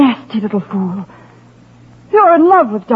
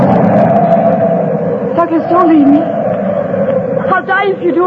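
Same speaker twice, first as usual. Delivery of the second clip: desperate pleading; 4 semitones higher, slower than usual. Acted. Anne begs Douglas not to leave.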